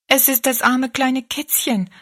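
put-on tender little girl's admission; young girl. Rosalie shows Betty Ann the poor kitten, tender.

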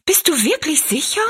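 high, anxious question; aghast and needing to be sure; dismayed. A narrator's reading. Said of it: "rief Rosalie bestürzt".

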